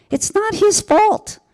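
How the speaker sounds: high, slow, wondering inner voice; voicing the sudden realization, drawn out high; inner voice realizing. Caregiver recalling her own thought, high and slow. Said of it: "I was thought".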